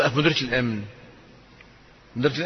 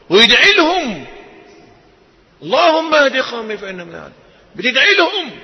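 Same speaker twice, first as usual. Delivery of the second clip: fervent climax; 8 semitones higher, 4 dB louder than usual. Real, not acted. Emotional climax.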